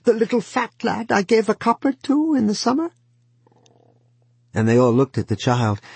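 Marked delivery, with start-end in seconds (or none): 0.0-2.9 uncle crying out. A narrator's reading. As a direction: call out in a higher old uncle voice. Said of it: "cried the uncle".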